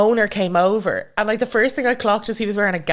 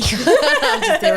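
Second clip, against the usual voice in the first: laughing through the line, higher; giggling, a bit higher and louder; 5 dB louder, much slower than usual. Real, not acted. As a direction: repeat the joke while cracking up. Laughing repeat of the joke.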